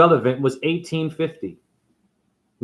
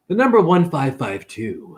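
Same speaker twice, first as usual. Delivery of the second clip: Hollywood voice; 2 semitones higher than usual. Acted. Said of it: "I'm gonna use my Hollywood voice".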